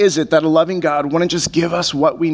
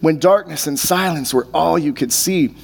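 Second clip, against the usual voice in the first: measured, heartfelt poem recital; poem reading. Acted. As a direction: pastor reading a poem about waiting, gently recited. Pastor reads poem aloud.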